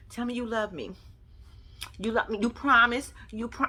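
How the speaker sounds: soft mock-needy pleading; retold lovey pleading. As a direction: imitate her softly begging for reassurance. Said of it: "why that tone change".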